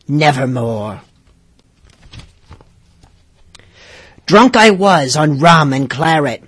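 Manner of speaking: gruff pirate reading a spooky poem; hammy pirate storyteller voice; scary pirate voice. Acted. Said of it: "I'm gonna read it in my scariest pirate voice".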